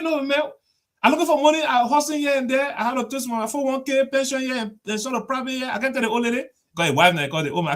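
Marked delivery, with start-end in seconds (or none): 0.0-6.4 exasperated chairman. Retold or imitated. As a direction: play the broke party boss venting. Chairman complaining about money.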